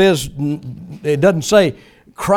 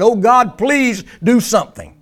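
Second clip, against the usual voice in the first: higher-pitched mock desperate prayer; hammed-up begging without real tears; mock bawling; 6 semitones higher than usual. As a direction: imitate a pleading cry to God. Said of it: "they just squalling and bawling".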